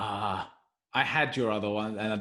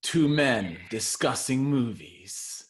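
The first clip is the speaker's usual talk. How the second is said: trailer voice; slower than usual. Pretend. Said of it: "We could do the trailer voice".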